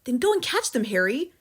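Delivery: high, loud urgent push; mother urging her husband to catch burglars; urgent hiss. Acted. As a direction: shove him to go catch them. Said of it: "hissed the mother".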